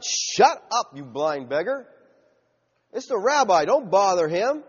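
mock stern rebuke; stern shushing. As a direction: tell off a nuisance, acted. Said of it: "sternly telling him to be quiet".

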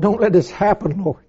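soft, hushed plea; quiet desperate prayer; begging prayer. Retold or imitated. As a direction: whisper the plea to God. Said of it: "I prayed and I cried to the Lord".

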